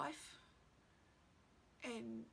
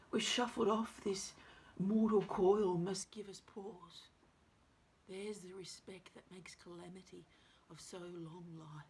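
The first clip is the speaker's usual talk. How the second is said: dramatic soliloquy; 8 dB louder than usual. Acted. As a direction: press the thought, then let it sink away. Performs the passage once more.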